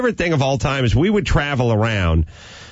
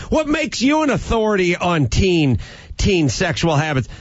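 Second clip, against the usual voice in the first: mocking hostile challenge; 6 semitones higher than usual. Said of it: "when you say".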